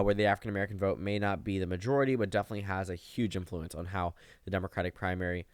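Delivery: talking around an ice cube; ice in mouth. Real, not acted. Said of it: "I just put an ice cube in my mouth".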